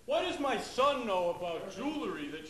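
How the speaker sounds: dad demanding how his son knows; suspicious dad. Retold or imitated.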